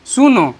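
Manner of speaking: सुनो held a little long; calling-style सुनो with long vowels; slightly drawn-out call. Shown as a demonstration. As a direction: stretch सुनो to show the pulled sound. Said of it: "ये थोड़ा सा sound खींच रहा है".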